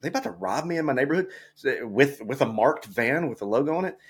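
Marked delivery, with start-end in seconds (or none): 0.0-1.3 retold nervous thought, higher, quick and softer; quick, uneasy question to yourself; mild worry, voiced under the story; a little nervous. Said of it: "getting a little bit nervous".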